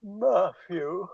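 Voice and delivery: a hint of posh, Matthew with a rising lilt. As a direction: say Matthew like a posh lady calling. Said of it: "That's posh".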